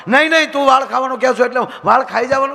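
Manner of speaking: loud, fast angry comeback; quarrelsome retort. Retold or imitated. Husband arguing back at his wife, fast and loud. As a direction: throw it back at her.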